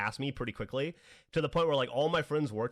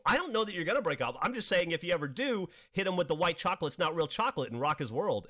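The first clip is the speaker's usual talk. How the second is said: higher-pitched mock self-defence; retold protest, talking your way out of it; defensive explaining; 6 semitones higher than usual. Customer backpedalling to the upset shop girl, defensive.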